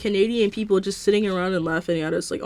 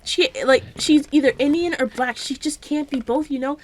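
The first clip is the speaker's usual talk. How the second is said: sarcastic; 5 semitones higher than usual. Pretend. Mocking critics' reasoning sarcastically.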